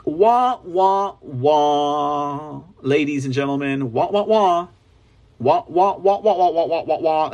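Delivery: mocking whiny wah wah; sing-song mockery of whiners. Mocking people talking about the news, whiny wah wah.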